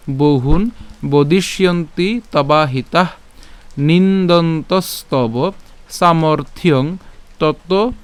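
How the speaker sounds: slow, measured recitation without melody; spoken verse recitation. Shown as a demonstration. Teacher saying the shloka from the start, slow spoken recitation. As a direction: recite phrase by phrase with clear pauses. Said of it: "আবার যদি প্রথম থেকে বলি".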